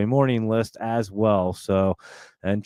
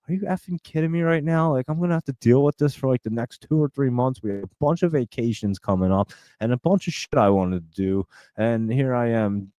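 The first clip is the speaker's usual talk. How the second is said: exasperated rant. Retold or imitated. Retelling his frustration at hospital.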